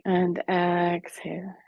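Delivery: breathy whispered cue; whispering. Acted.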